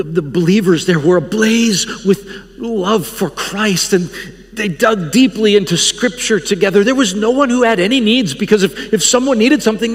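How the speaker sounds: put-on rising rapture in a French accent. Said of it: "he's got this French accent".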